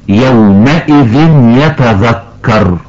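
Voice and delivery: يومئذ يتذكر slow, the tanween merged into the y with a nasal hum; إدغام بغنة. Shown as a demonstration. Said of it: "والصواب أن ننطقها". (إدغام التنوين بغنة ببطء)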